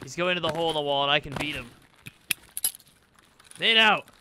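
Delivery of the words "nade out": grenade warning yell. Real, not acted. Calling grenade to team.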